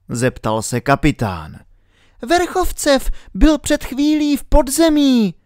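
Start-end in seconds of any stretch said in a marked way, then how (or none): 2.3-5.3 put-on high girl's voice calling across. A narrator's reading. Alenka calls to the captain, high and urgent. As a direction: call to him from a distance, higher. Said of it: "volala Alenka".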